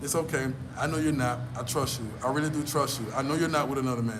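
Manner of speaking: smooth, mild soothing of a lover; suave reassurance. Shown as a demonstration. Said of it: "You got to be like this here".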